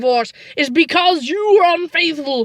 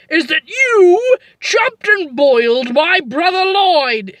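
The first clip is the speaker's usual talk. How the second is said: tearful accusation; 2 semitones higher, slower than usual. Acted. Wife accuses husband of murder.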